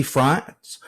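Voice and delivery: put-on a quick French accent on France; a brief touch of French accent. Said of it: "that's my, uh, French accent there".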